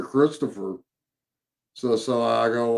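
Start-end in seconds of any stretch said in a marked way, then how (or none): 0.0-0.8 imitating the ghost's reply. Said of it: "we did get that very clear".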